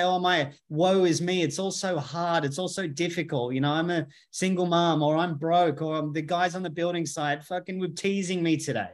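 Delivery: lightly hammed-up self-pitying moan; whiny victim voice. Mocking people who play the victim, mild whiny voice. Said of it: "You can't say".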